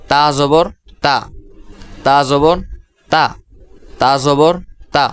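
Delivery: তা জবর তা chanted as a drill; teaching pronunciation. Shown as a demonstration. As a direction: model তা for the class. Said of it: "এর পরবর্তী অক্ষর".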